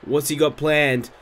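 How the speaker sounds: live ringside play-by-play; wrestling commentator. Acted. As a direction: call the match like a TV announcer. Live play-by-play of game match.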